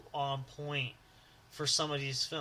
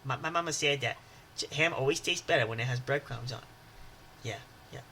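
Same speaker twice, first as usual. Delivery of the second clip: put-on soft stammering Water Boy, much softer; 3 semitones lower, 3 dB quieter than usual. Quoting the Water Boy to his cohost, stammering softly.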